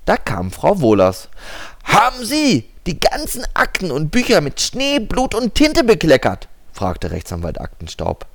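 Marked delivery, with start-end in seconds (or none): 1.8-6.5 stern lawyer. Acted. Lawyer questions secretary.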